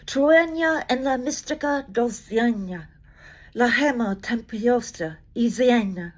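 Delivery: careful Spanish recital of the original; poem in Spanish. Acted. Reading Vallejo's original to the audience, careful Spanish recital. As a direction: give the Spanish its lyric beauty, carefully. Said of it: "attempt it in my best Spanish possible".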